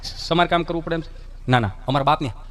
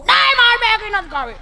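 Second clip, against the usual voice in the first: much higher, louder bratty whine; whiny spoiled kid; 13 semitones higher, 5 dB louder than usual. Acted. Spoiled son refuses the Maggi his mother offers, whining high. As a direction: whine like a fussy child refusing.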